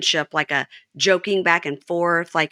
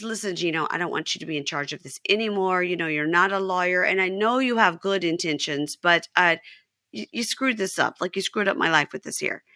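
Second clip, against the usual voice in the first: retold calm. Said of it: "she's saying it very calmly".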